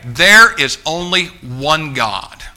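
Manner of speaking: emphatic preacher's proclamation. Real, not acted. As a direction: hammer it home slowly and firmly. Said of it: "The Bible is emphatic".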